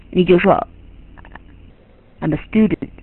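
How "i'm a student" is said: quick, low, soft rendering of "I'm a student"; careless imitation. Shown as a demonstration. Teacher showing how a learner imitates wrongly, careless imitation. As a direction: rush through it quietly, with no melody. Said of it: "这就不是这样".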